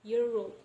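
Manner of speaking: put-on "year old" said as "year roll"; linked pronunciation. Shown as a demonstration. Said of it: "old will become roll".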